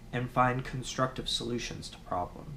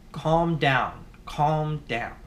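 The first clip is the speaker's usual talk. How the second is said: calm down barked louder, a touch testy; mock angry command; 2 semitones higher, 5 dB louder, much slower than usual. Telling an angry person to calm down, mock irritated command. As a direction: snap it at them a little. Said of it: "you'll be using it in an angry tone".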